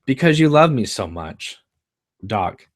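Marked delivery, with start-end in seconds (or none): 0.0-1.6 charming. Acted. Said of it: "smiling her killer smile".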